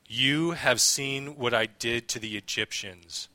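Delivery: measured read-aloud with pauses between phrases; scripture reading. Acted. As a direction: read the passage out solemnly and unhurriedly.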